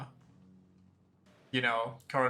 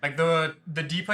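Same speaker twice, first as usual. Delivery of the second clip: louder, eager idea pitch; excited; 4 dB louder than usual. Real, not acted.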